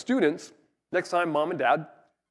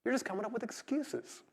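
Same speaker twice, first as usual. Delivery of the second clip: exasperated retort; 8 semitones higher, 8 dB quieter than usual. Retold or imitated. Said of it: "and you're like".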